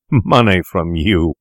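slow, drawn-out scorn; indignant cry. A narrator's reading. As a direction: spurn the offer word by word. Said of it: "cried Fettes".

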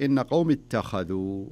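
slow "اتخذوا", light ت and heavy خ; careful recitation. Shown as a demonstration. Teacher quoting the second word, slow "اتخذوا" with heavy خ. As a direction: draw out "اتخذوا" with only the خ heavy. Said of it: "وتفخيم الخاء".

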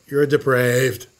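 low slow judging verdict; mock accuser, low. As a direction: drop it low and slow like a stern judge.

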